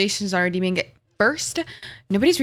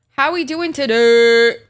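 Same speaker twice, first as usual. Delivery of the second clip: slow, loud drawn-out greeting; 5 dB louder, slower than usual. Real, not acted.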